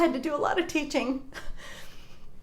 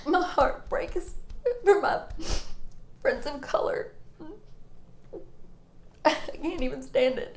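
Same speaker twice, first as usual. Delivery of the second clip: crying; 2 semitones higher than usual. Real, not acted. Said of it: "I'm an ugly crier".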